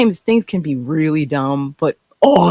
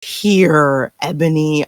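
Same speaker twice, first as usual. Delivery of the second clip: drawn-out, pleading why, slow; begging the character to explain, slowly; stretched, incredulous appeal to Ebony; exasperated plea; much slower than usual. Acted.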